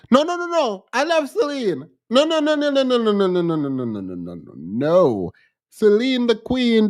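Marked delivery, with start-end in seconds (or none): 0.1-5.3 emphatic denial. Real, not acted. Hurried denial of disliking Celine.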